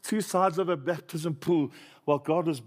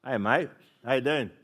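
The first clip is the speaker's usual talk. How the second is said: put-on Aussie accent. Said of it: "It's like an Aussie".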